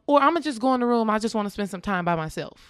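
replaying herself brightly insisting she's fine alone; upbeat and breezy. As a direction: rattle it off lightly, nothing wrong. Continues breezy self-quote.

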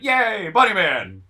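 a playful little crowd cheer; lightly voiced townsfolk; mock cheer. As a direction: cheer like a fan at a parade. Townsfolk cheering the Bunny Man.

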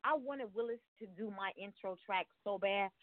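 winded from dancing, puffing between phrases; breathless after bouncing around; out of breath. Real, not acted. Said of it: "I'm out of breath 'cause I just been dancing".

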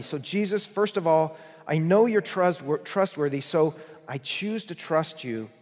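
fervent prayer. Pretend. Preacher modelling a believer's prayer to Jesus, fervent. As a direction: pray it out, pleading yet trusting. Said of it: "something like this".

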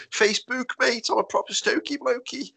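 high-pitched mock Stoke accent. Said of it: "the Stokey word that people go".

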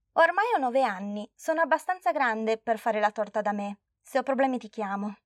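lightly voiced girl insisting she's grown; a hint of a proud nine-year-old; confident little girl. Girl tells grandma she is big enough, lightly childish.

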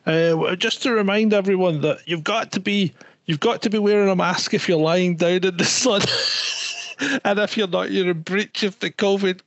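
a hint of a bored marshal reading rules aloud; covid marshal on megaphone. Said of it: "the covid marshal's got a megaphone and they're going".

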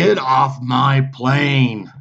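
slow mock action-hero delivery; movie line quote. To his co-host, quoting the president's line in a slow mock hero voice. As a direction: drag out the famous line like the film.

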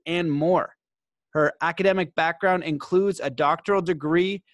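measured announcer read with punched key words; podcast intro read. Acted. Host formally introducing today's guest to listeners, podcast intro read. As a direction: read out a guest bio, phrase by phrase.

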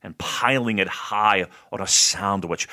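slow, savoring food description; drawn-out, deliberate descriptive voice; describing voice. Real, not acted. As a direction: describe it slowly, lingering on each morsel. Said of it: "My describing voice".

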